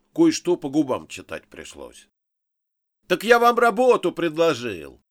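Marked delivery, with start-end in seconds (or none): 3.1-5.0 loud, high, overloud reply; deafened man's raised voice; shouting, half-deaf. A narrator's reading. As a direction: shout as if unable to hear yourself. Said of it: "прокричал я из-за того".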